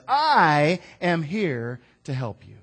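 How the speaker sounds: slow, loud I am here to help you; loud proclamation. Acted. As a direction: declare it with weight. God says.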